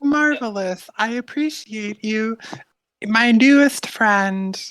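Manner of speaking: high, slow, timid little voice; timid guard, grateful. Acted. Game master as timid guard thanking a new friend, meekly. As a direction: draw it out gratefully, pitched high.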